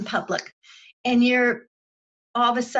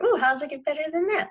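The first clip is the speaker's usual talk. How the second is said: quick, bright delighted question; delighted ooh; 5 semitones higher, faster than usual. Retold or imitated. Finder of a quarter, delighted, asking quickly for more. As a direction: savor the small win, quickly. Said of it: "And they found a dollar".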